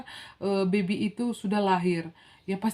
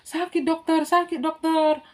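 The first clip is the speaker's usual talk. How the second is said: retold pained plea; 8 semitones higher, 4 dB louder than usual. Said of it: "Sampai saya bilang".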